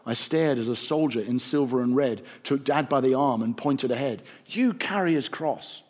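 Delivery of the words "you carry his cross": soldier's command. A narrator's reading. Soldier orders Dad to carry cross.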